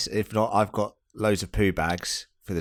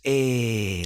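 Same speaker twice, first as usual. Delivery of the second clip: higher Geordie "Eh," like Nan; a puzzled Geordie "Eh,"; Geordie accent; 6 semitones higher, 3 dB louder than usual. Retold or imitated. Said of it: "That's what she says".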